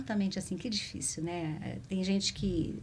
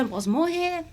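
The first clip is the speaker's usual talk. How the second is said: a raised, pleading prayer, half choked up; tearful plea; 7 semitones higher, 5 dB louder than usual. Retold or imitated. Retelling her prayer in the rainy traffic, tearful plea. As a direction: beg God not to let you die, emotion rising. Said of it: "Aí até me emociona".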